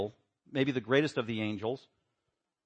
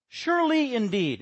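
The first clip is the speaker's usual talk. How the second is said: lightly voiced sly serpent, pitched up; mocking serpent; 10 semitones higher, 4 dB louder than usual. Preacher voicing the snake to Eve, mock sly. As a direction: tease like the snake doubting God. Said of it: "It's emphatic in the Hebrew".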